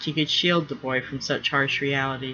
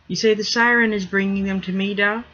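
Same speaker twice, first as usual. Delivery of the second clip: put-on higher boy's voice, uneasy; worried boy; 5 semitones higher, 3 dB louder than usual. Young son asking his father about the screaming creatures, uneasy. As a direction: ask your father, unsettled.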